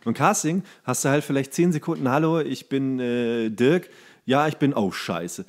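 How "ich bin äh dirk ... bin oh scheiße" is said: usual speaking voice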